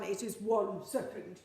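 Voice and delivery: lightly voiced Gruffalo. Shown as a demonstration. Teacher answering the children in character, Gruffalo voice. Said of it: "Can you tell me in a Gruffalo voice?".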